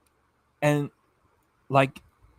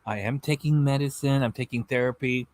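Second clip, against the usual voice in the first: mock scientist. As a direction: lightly lecture it like a scientist. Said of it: "like she's a scientist and she's telling you".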